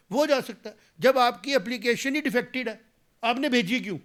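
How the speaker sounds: indignant, raising the voice at the minister; heated outrage. Real, not acted. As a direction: politician attacking the health minister's ignorance, loud and heated.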